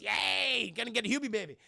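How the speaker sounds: mildly hammed-up glee; mock excitement. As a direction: cheer lightly in her giddy voice. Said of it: "She's very excited".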